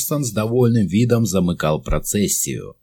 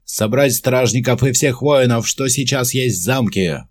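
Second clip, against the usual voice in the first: shouting on the run; 7 semitones higher than usual. A narrator's reading. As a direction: call the troops to arms. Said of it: "крикнул он на бегу".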